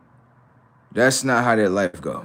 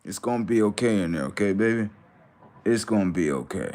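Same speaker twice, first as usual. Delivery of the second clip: mock soothing; 4 dB quieter than usual. Mock-comforting the screaming commenters.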